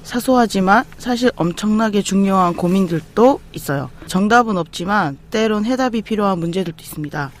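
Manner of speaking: measured, scripted host opening; podcast intro read. Acted. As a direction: announce the show to listeners, line by line. Host reads scripted show opening.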